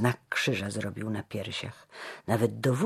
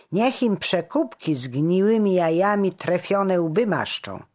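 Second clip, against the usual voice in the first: loud, raised tirade; angry heckler crying out; shouting; 9 semitones higher, 7 dB louder than usual. A narrator's reading. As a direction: hurl abuse and demand punishment. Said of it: "wykrzykiwał".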